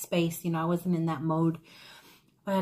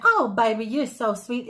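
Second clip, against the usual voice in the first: put-on Creole-accent endearment, loud on the first words; imitated Creole accent; 5 dB louder than usual. Volunteer chit-chatting with her customer, in an imitated Creole accent. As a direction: coo it in an attempted Louisiana Creole accent. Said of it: "It's this accent she has".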